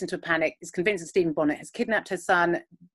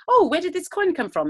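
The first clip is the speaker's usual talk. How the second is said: high-pitched mock astonishment; acted surprised question; 12 semitones higher than usual. Mother asking housekeeper about a coin, mock surprise. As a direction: jump up high, playing puzzled surprise.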